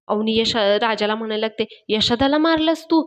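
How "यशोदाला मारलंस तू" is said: higher, indignant retold question; shocked accusation. Avni confronts Raja for hitting Yashoda, shocked. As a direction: accuse him in pained disbelief.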